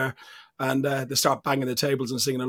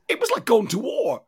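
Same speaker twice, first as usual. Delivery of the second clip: whisper; 8 semitones higher than usual. Real, not acted.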